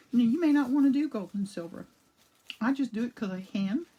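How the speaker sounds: talking around a cough drop; words round a lozenge; cough drop in mouth. Real, not acted. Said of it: "I've got a cough drop in my mouth".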